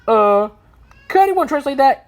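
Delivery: high, puzzled character query; confused. A narrator's reading. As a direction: ask for help, a touch baffled. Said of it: "in confusion".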